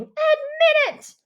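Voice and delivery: loud, high, slow shout; furious girl yelling; shouted demand. A narrator's reading. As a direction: scream it at him. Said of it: "Mia shouts".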